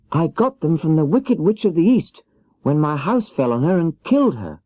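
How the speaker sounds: put-on little girl pleading for help; young Dorothy. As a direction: play Dorothy small and meek, pitched high. Dorothy answers Oz.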